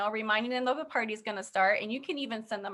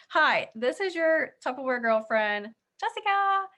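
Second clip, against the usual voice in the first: cheery sample greeting; 3 semitones higher, 4 dB louder than usual. Shown as a demonstration. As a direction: greet a customer brightly, stretching it out. Demonstrates a follow-up call to customer.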